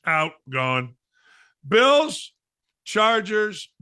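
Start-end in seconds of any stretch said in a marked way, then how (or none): 1.7-3.7 a higher, louder shout of the team name; sudden pumped-up announcement; excited call-out. Real, not acted. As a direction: punch the name like a headline. Host calls out a result.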